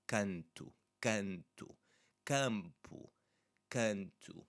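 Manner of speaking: "canto" and "campo" with a nasal a; nasal a demo. Shown as a demonstration. Teacher drilling "canto" and "campo" for students, nasal. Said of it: "you should feel the vibration here".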